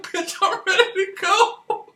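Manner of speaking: high, loud, laughing holler at the niece; hollering uncle. Retold or imitated. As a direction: yell it like a wild uncle on the porch at 3am. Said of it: "he's all like".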